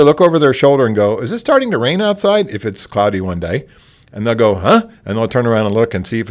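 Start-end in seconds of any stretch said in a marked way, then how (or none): 1.2-2.5 sudden high, surprised question; mock surprise. Shown as a demonstration. Librarian feigning surprise to derail a ranting patron. 4.6-4.9 confused huh. Shown as a demonstration. Patron caught off guard.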